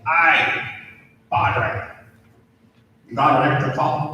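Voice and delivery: lightly attempted Australian accent, quick at the end; Aussie accent. Australian priest greeting a colleague at the hospital, rough Aussie accent. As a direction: have a go at a mild Australian accent. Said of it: "That's my Aussie accent".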